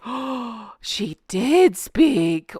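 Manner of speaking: put-on voice drawing out a smug reveal; mock grand entrance. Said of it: "be like".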